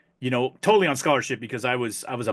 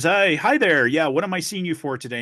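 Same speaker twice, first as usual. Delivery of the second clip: higher, louder friendly doctor greeting; cheery doctor; 4 semitones higher, 3 dB louder than usual. Acted. Doctor greets a patient in a joke, cheery voice. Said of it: "the doctor says".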